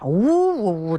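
long, high mock sob "wuu-wuu-wuu"; imitated wailing. Doctor retelling how his scolded patient burst out crying, mock wailing. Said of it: "呜呜呜的就哭啊".

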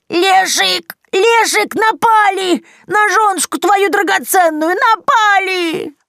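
hysterical screaming. A narrator's reading. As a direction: wail for help across the yard. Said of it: "а потом заорала".

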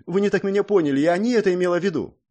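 flustered. A narrator's reading. Princess hastily backpedaling to the hero, flustered and fast. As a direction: hurry to take it back. Flustered excuse after slip.

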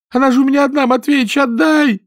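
высоко и громко, с мольбой; причитай и проси соседа отдать корову; причитая. A narrator's reading. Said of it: "причитала Нюра". (плачущая мольба)

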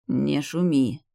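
usual speaking voice

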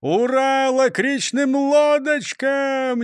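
high, slow, loud outburst; blurted shout. A narrator's reading. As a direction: blurt it out, unable to wait. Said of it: "выкрикнул прокурор Принцип".

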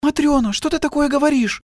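very high, alarmed woman's cry; shocked gasp. A narrator's reading. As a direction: gasp at her friend's words. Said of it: "ахнула худая". (испуганно ахнув, очень высоко)

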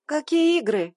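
loud, high indignant cry; a yelp of disbelief; indignant outburst. Acted. Heroine protests in shock.

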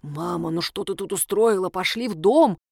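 ordinary delivery

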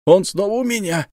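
радостно и высоко, протяжно; выдохнуть с восторгом. Acted. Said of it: "с восторгом выдохнул". (кабан в восторге от нагана, высоко)

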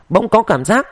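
plain reading voice

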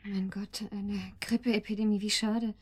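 hushed, breathy sympathy; softly whispered concern; whispered dismay. Acted. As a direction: gasp it out in dismay. Sympathetic shock on phone.

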